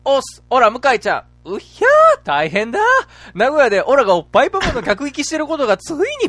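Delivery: high, loud excited anime hero; Goku impression. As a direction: shout it like Goku previewing. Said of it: "ドラゴンボールの次回予告風で".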